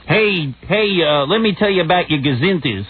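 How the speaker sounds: hammed-up hillbilly speechmaker; Jethro. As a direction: play a country bumpkin giving a talk.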